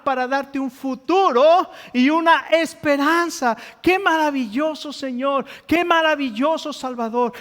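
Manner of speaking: pressing, emphatic pulpit voice; impassioned preaching. Real, not acted. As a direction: preach it with mounting urgency. Preaching climax of hope.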